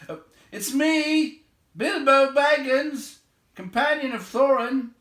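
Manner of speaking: high, loud hurried call; hurried cry. A narrator's reading. Invisible hobbit calling out to searchers, loud and hurried. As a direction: call out fast to be found. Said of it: "he cried hurriedly".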